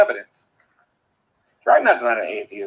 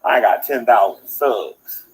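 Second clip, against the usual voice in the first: slow, drawn-out mock imitation; Dragnut; 3 semitones lower, slower than usual. Looking down at his little people, slow mocking imitation. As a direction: mimic a self-important ruler, word by word. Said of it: "That's a terrible imitation of Dragnut".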